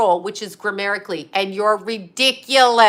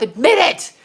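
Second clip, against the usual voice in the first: taunting; 5 semitones higher, 6 dB louder than usual. Real, not acted. Taunting an absent man.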